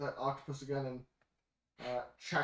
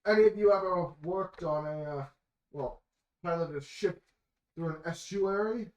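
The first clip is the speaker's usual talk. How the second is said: raised voice, projected question to the crew; louder, higher captain's call; Bellamy calling out; 4 semitones higher, 7 dB louder than usual. Acted. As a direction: call it out across a ship's deck. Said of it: "Bellamy calls out".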